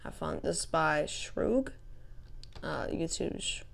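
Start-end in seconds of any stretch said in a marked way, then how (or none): 2.6-3.6 whispering. Real, not acted. Aside crediting the map maker.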